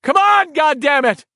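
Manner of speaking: high, loud pleading shout; desperate shouting. A narrator's reading. Ben trying to wake Richie, desperate shout. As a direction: yell him awake.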